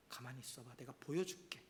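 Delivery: quiet, gentle assurance; soft reassuring voice of God. Retold or imitated. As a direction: speak it softly as God comforting. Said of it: "라고 말씀하시는 거죠". (조용하고 다정하게)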